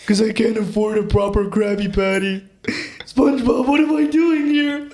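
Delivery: Patrick. Acted. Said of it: "you want me to start with Patrick".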